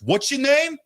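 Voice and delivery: high, loud mock scream; retold scream. Imitating the bassist cutting off a fan's question, screamed. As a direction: scream it abruptly at a fan, in imitation. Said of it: "Like, screams it at me".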